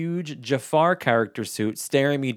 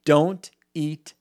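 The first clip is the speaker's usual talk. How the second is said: slow warning; 3 semitones higher, slower than usual. Retold or imitated. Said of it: "And this is what he said".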